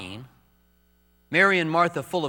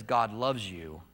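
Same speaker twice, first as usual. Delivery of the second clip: slow, weighted reading of the cross; 5 semitones lower, 5 dB quieter, slower than usual. Acted. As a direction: read it out slowly, heavy with grief.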